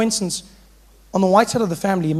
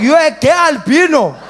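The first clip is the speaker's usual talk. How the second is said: loud, high, amused disbelief; laughing uncle; 9 semitones higher, 8 dB louder than usual. Retold or imitated. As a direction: laugh through the question.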